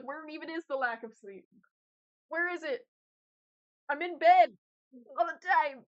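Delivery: building to an exasperated shout; rising, fed-up outburst. Retold or imitated. Exasperated quote of herself.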